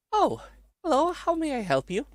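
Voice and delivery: put-on high, squeaky little mouse girl; soft squeaky voice. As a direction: squeak it out softly like a tiny mouse. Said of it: "in a soft, squeaky voice".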